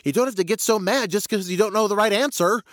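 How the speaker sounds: high-pitched whining lion protest; battered lion. Acted. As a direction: complain like a beaten-up bully. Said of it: "the bloodied and battered lion goes".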